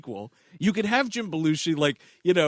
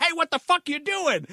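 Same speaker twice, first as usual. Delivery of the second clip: higher, angry mock yell; 11 semitones higher than usual. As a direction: play the furious train conductor. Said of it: "he's yelling at Victor".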